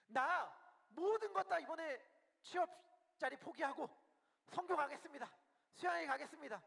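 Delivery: mildly declamatory, decisive vow; bold resolve. Acted. Believer vowing to give up a job for God, boldly resolved. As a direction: announce a big decision with firm resolve. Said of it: "과감하게 결단을 딱 내리고".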